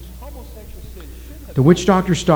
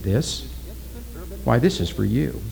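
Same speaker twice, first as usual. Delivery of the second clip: quiet menace; 7 dB quieter than usual. A narrator's reading. Witch doctor turning the scepter on Oki, quiet and menacing.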